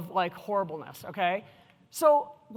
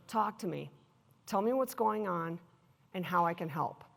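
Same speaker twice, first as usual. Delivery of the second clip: gentle; 4 semitones lower, 5 dB quieter than usual. Retold or imitated. Manager gently coaxes a crying employee.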